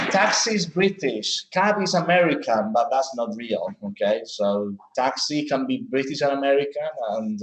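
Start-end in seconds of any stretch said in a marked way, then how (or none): 0.1-2.7 higher, mock-quoting a common claim; quoting people. Teacher mimics a popular belief she will debunk. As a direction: lightly voice what people say. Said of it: "Sometimes people say".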